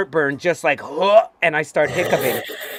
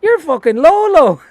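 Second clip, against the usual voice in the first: loud, high startling shout right at him; mock yell from a stranger; shouted scare; 12 semitones higher, 9 dB louder than usual. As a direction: bark it to make him jump. Old man scaring him, retold.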